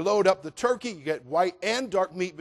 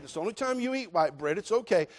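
usual speaking voice

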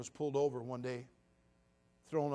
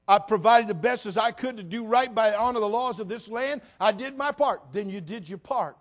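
loud, raised preacher voice; full-force preaching; 8 semitones higher, 12 dB louder than usual. Acted. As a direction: drive the point home to the congregation.

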